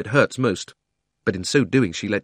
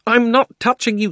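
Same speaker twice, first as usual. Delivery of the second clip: high, loud protest; protesting shout; 14 semitones higher, 6 dB louder than usual. Acted. Diggory shouting back at Polly, protesting. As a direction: yell back in confusion.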